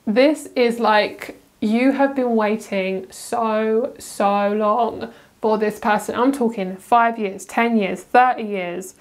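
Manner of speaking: slow, weighty emphasis; slow emphatic telling; drawn out. Real, not acted. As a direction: stretch each phrase to show the long wait. Stressing long wait.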